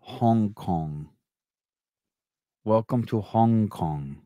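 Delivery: slow mock Asian accent; caricatured Asian accent, unhurried. Shown as a demonstration. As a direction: put on an Asian accent, drawn out. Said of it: "with an Asian accent".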